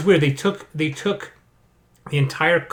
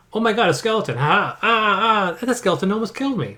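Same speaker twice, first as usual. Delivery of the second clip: high-pitched, hammed-up alarm; mock panic; 6 semitones higher than usual. Gamer replaying the skeleton fight six levels later, mock panic. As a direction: yelp as if fighting for your life.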